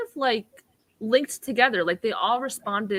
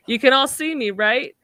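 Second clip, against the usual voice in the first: put-on high, playful childlike alien; Ergo voice; 6 semitones higher, 5 dB louder than usual. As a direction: ask it like an eager child. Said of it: "So I'll do Ergo".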